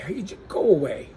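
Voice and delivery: a breathy, half-voiced "go away"; whispered dismissal. Real, not acted. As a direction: shoo them off under your breath. Dismissing PETA.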